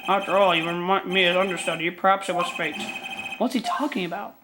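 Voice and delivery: lightly voiced troubled old lawyer; a hint of a weary elderly gentleman; old man voice. Old attorney character voiced.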